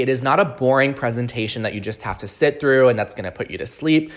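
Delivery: normal talking voice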